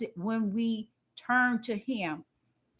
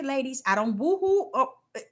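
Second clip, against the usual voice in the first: laughing; 3 semitones higher than usual. Real, not acted. Laughing at her own story.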